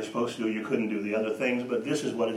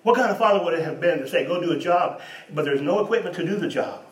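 loud, higher rising preacher's challenge; preaching at full force; 7 semitones higher, 7 dB louder than usual. Acted. Preacher to congregation about fathers, loud and higher. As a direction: drive the question home, louder and higher.

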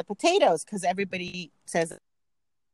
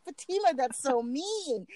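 higher, slow giggly mock scold; laughing mock scold; 5 semitones higher, 4 dB quieter than usual. Guest scolding friend for teasing, laughing. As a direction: chide her while laughing. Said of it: "I'm like".

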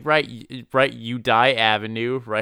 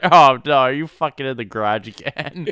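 louder, laughing through mock outrage; exasperated laughing yell; 6 dB louder than usual. Husband catches his wife out again, laughing, exasperated yell. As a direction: yell it while cracking up.

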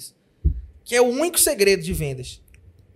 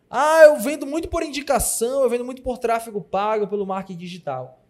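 mocking client voice; 4 semitones higher, 4 dB louder than usual. Quoting clients' excuses.

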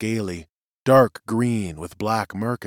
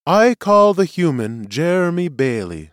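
formal summons, higher and louder; presiding seer; 7 semitones higher, 5 dB louder than usual. Acted. Seer calls a human to testify, commanding. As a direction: call the witness with authority.

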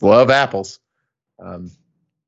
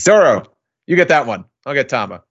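calling out; 5 semitones higher, faster than usual. Retold or imitated. Luffy calling orders to Zoro.

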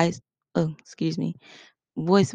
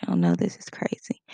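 disbelief; 12 semitones lower than usual. Shown as a demonstration. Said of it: "I'm shaking my head like".

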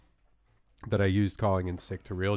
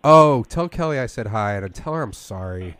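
fake sick voice. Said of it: "my fake sick voice".

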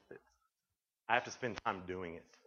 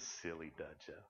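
put-on small child voice; 7 semitones lower, 13 dB quieter than usual. Quoting small son teasing.

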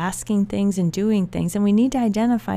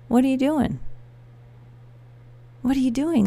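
higher, upbeat retold question, full of interest; happy questioning; 6 semitones higher, faster than usual. Dad asking about a new venture, happily. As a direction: imitate a delighted dad, pitched up. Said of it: "Like, in a happy way".

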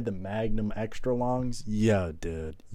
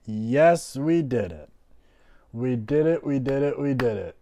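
excited; 3 semitones higher, 5 dB louder, slower than usual. Real, not acted. Celebrating podcast launch.

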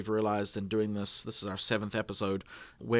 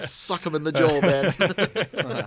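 silly voice; 5 semitones higher, 7 dB louder, much slower than usual. Retold or imitated. Quoting someone in silly voice.

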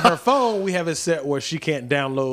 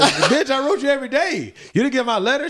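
mock boyfriend; 10 semitones higher than usual. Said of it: "he says".

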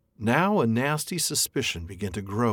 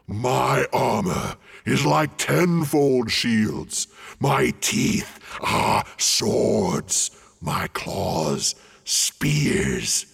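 slow, loud menacing dragon voice; boasting dragon; 3 semitones higher, 4 dB louder, much slower than usual. A narrator's reading. Dragon bragging to the hobbit, slow and loud. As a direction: roll out each boast, ending in a hush.

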